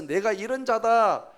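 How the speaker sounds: loud, high, commanding proclamation; booming acted divine voice; God speaking directly. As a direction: declare yourself with full authority and demand to be heard. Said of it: "하나님이 직접 나서서".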